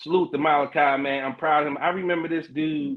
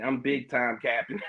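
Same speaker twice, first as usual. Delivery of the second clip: laughing; 3 semitones lower, 4 dB quieter than usual. Real, not acted. Laughs at his own boast.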